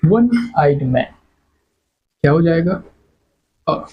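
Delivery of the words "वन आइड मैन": slow modelled phrase. Shown as a demonstration. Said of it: "वो".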